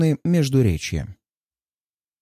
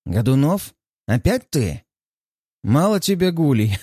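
sharp, irritated. Acted. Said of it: "резкий раздражённый голос".

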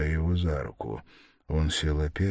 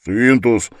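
loud, high, embarrassed scolding; flustered, raised-voice reproach; mortified; 7 semitones higher, 11 dB louder than usual. A narrator's reading. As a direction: blurt it out in hot embarrassment. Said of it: "произнёс страшно сконфузившийся и покрасневший".

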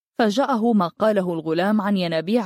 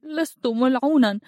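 put-on high, tearful boy's cry, pitch raised; a child crying out his denial through tears; lightly voiced weeping boy, high and pleading; 6 semitones higher than usual. A narrator's reading. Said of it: "صرخ هرهور وهو يبكي".

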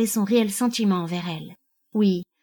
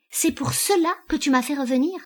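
raised pitch, affronted disbelief; incredulous; 7 semitones higher than usual. A narrator's reading. Husband called back home by his wife, incredulous. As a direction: question it as if astounded. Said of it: "s'exclama-t-il interloqué".

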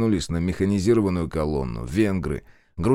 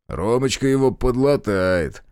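зловещий смешок; 4 semitones higher, 3 dB louder, slower than usual. Acted. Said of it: "зловеще рассмеялся Решетов".

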